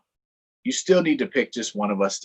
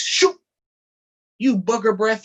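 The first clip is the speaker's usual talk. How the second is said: high, louder cartoon outburst; mock anger; 10 semitones higher, 7 dB louder than usual. Donkey hit by mud, high mock-angry outburst. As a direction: snap back playfully.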